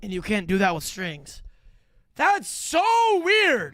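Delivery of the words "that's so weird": excited. Real, not acted. Reacting to the clip.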